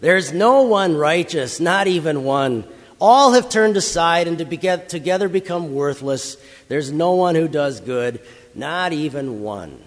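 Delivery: loud scornful calling out, no laugh; mocking yell. Slave master yelling to other drivers about the slaves, loud mockery. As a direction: call out the verdict loudly, slowing on the last words. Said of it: "yells out to them and laughs in mockery".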